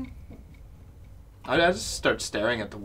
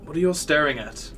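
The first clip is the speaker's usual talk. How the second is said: dazed loud; 4 dB louder than usual. Acted. Dazed character wakes confused.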